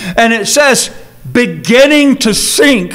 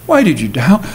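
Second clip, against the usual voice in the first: gentle question; 6 semitones lower than usual. Shown as a demonstration. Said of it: "Can you hear it that way?".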